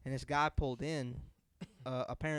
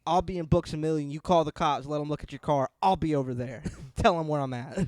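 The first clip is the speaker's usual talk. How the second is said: mock furious grandpa; 2 semitones higher, 12 dB louder than usual. Grandfather loudly telling the stranger to call the cops. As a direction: bark it back at him.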